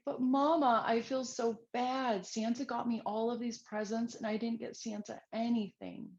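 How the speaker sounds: a hint of a tearful four-year-old; little girl. Girl confessing to mom, lightly voiced sad child. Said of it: "her little girl sits up and she wipes her eyes".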